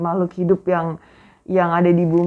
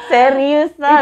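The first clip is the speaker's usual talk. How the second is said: loud, high exclamation; emphatic insistence; 8 semitones higher, 7 dB louder, much slower than usual. Real, not acted. Telling co-host the mic story is true, loud high insistence. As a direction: insist loudly that it really happened.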